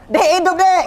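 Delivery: high-pitched call out to wife; retold excited shout. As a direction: shout it like astonishing news just discovered. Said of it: "Saya teriak".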